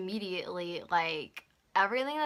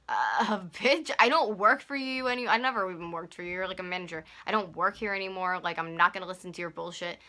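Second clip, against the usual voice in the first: retold angry comeback; 6 dB louder than usual. Retold blow-up at manager.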